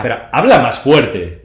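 loud, slow, insistent request; slow it down and push the volume; speaking up. Real, not acted. Urging co-host to speak up.

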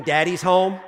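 put-on loud happy kid shout; kids screaming. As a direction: call it out like kids at the door. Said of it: "start screaming".

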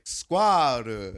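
imitating a Japanese speaker's attempt; Japanese-accented mispronunciation; mock Japanese accent. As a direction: squirrel with a put-on Japanese accent. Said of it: "you say that to a Japanese man".

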